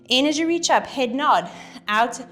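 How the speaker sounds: breathless from the exercise; cueing while catching breath. Real, not acted. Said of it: "Sorry, just catching my breath there".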